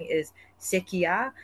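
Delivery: sekia said slowly, clearly, rising at the end; slow Samoan word. Shown as a demonstration. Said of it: "which is a very casual slang".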